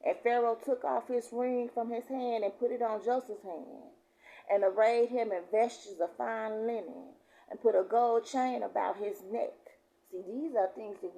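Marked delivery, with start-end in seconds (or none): 0.1-9.5 raised, emphatic preacher's reading; scripture reading. Real, not acted. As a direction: declare the verse to the congregation. Reads scripture aloud.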